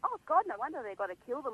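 high, mock-amazed gasp of the public, rushing; mock shocked public. People reacting to kangaroo numbers, mock shocked exclaim. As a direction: parody gullible people gasping at big numbers. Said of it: "people are just like".

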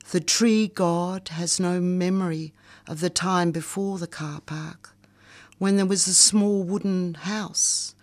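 slow, measured poetry recital; poem reading. Acted. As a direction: read it like a spoken-word poem. Reads her poem aloud.

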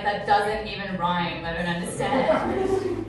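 put-on confused child. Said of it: "I was like".

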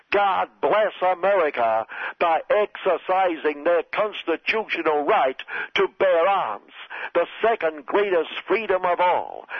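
a hint of Trump, puffed up with pride; proud Trump impression. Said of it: "he added proudly".

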